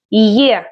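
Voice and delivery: gliding "yeh" for the letter. Shown as a demonstration. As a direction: say the letter as the start of yes. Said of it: "as in yes".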